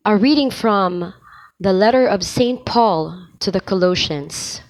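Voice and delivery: formal lector reading; steady, reverent reading voice; proclaiming scripture. Shown as a demonstration. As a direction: proclaim it to the congregation.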